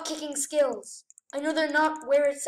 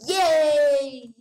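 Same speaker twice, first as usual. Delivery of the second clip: a loud happy cheer; excited yay; 5 dB louder than usual. Real, not acted. Gamer cheering at his favourite map, excited shout. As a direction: celebrate the map choice out loud.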